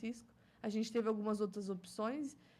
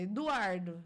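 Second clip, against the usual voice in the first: mildly stern, firm name-call; angry mum calling; 2 semitones lower, 4 dB louder, slower than usual. Shown as a demonstration. Mother calling her son when cross, mock stern. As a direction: say it a touch louder, like a cross mother. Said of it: "Eduardo é quando eu tô brava".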